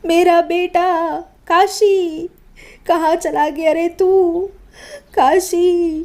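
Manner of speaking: wailing mother. Acted. Mother wails over dead son.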